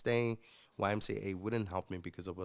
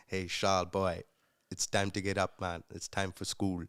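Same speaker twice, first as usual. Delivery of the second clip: put-on a light Trinidadian accent, louder; imitating a Trinidadian host dad waking a boy, Trinidadian lilt; fond, louder Trinidadian wake-up call; 3 semitones lower, 5 dB louder than usual. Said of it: "this thick Trinidadian accent".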